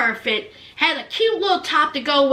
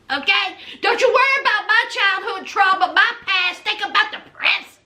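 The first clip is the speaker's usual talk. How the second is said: a touch of sassy, firm telling-off; sassy lecture; 4 semitones higher than usual. Retold or imitated. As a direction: put her in her place, lightly mocking. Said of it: "Memphis said".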